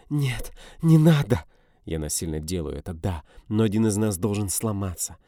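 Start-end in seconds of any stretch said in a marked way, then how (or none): 0.1-1.4 higher, louder, slow crying plea; woman crying to him not to; anguished plea. A narrator's reading. Dina pleading.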